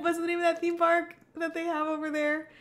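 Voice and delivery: put-on Philadelphia accent. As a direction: keep the playful Philly voice going. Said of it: "somebody from Philadelphia".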